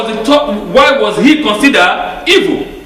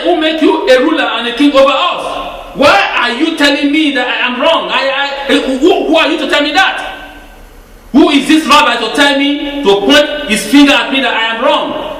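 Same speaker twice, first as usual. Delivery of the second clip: defiant retort; 4 semitones higher than usual. Acted. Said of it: "But he's saying".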